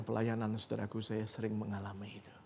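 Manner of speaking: hushed, breathy confession of faith; whisper. Real, not acted. Pastor sharing his own prayer life, whispering. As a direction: let it drop to a whisper. Intimate personal testimony.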